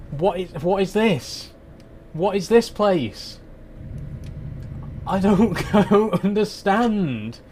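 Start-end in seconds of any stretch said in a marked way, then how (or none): 5.1-7.4 slow, higher, laughing through the words; laughing in disbelief. Real, not acted. Lost driver laughing helplessly, slow and higher. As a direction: give up and laugh at being lost.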